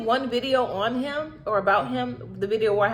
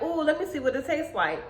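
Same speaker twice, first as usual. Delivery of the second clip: excited to taste it; 5 semitones higher than usual. Retold or imitated. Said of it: "I'm excited to taste it".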